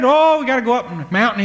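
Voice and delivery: high, loud and eager; urging his parents, breathless with news; excited pleading. Acted. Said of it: "he got excited".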